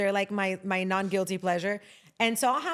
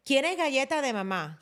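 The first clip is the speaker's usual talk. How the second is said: put-on toddler voice; 5 semitones higher than usual. Toddler voiced asking the nanny.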